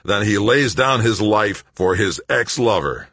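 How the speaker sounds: high, loud, manic declaiming; babbling. A narrator's reading. Greg yanking at the pump bolts, babbling loudly. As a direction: finish the quotation in a wild babble. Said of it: "Greg babbled".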